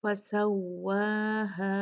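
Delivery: slow "फसव्वाहा" with rounded lips on the doubled w; drawn-out "फसव्वाहा", full W; rounded waw. Shown as a demonstration. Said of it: "होंठों को गोल करना है".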